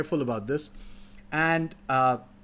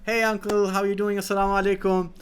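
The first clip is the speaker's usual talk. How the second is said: lightly voiced, higher fake-friendly greeting; a hint of a sweet-talking trickster; sly friendly hoodlum; 5 semitones higher than usual. Hoodlum greets the old farmer, lightly voiced fake-friendly. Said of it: "And he says".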